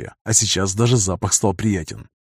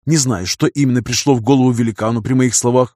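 plain reading voice

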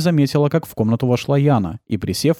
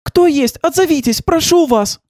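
high, louder calls down the corridor; calling out; 4 dB louder, slower than usual. A narrator's reading. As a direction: shout for anyone to answer. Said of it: "Она побежала по коридору и кричала". (кричит в пустой коридор)

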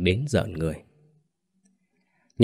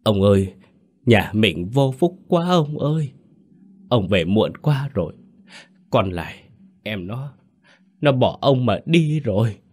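mild acted sob, lamenting to her husband; a touch of tearful wailing, pitch rising; wife fakes grief breaking the news, mildly tearful; choked sobbing; 3 semitones higher than usual. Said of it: "giọng nghẹn ngào nức nở".

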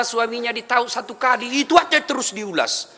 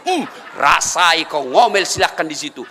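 spiteful gloating; 5 semitones lower than usual. Retold or imitated. Voicing spiteful husband.

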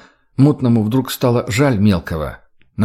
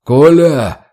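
loud call across the office, pitched up; shout; 5 semitones higher, 8 dB louder than usual. Acted. Boss calling his secretary through the door, loud shout. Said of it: "крикнул секретаря хозяин кабинета".

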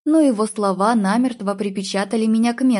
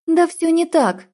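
higher, louder, desperate denial; protesting cry; 7 semitones higher, 3 dB louder than usual. A narrator's reading. Heroine protests to Tim, a higher, louder denial. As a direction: fling the denial at him.

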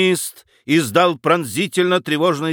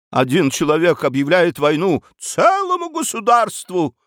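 a higher, agitated exclamation; выкрик баронессы; 5 semitones higher than usual. Acted. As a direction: cry it out, stirring everyone up. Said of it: "выкрикнула баронесса". (взволнованный выкрик)

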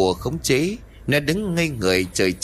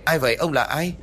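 calling out; 5 semitones higher than usual. Acted. Phi calls to unseen voice.

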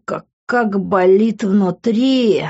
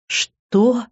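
raised voice; 4 semitones higher than usual. Acted. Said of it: "повысил голос Лес".

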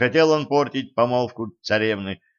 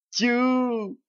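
a long, much higher scornful Тю; drawn-out scoff; 14 semitones higher than usual. Acted. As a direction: stretch the Тю out high and mocking. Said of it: "протянула Забава". (протяжное презрительное «тю», высоко)

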